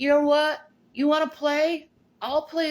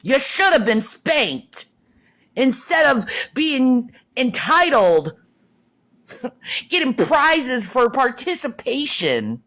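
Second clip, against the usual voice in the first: louder, hammering scorn; loud rant; 5 dB louder than usual. Real, not acted. Scolding entitled viewers in a loud rant. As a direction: yell it at them. Ranting at younger generation.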